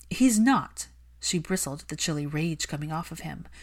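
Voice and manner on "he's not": higher, louder furious plea; angry Hermione. Acted. Hermione scolding Malfoy for neglecting his son, heated. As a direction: defend the lonely child fiercely.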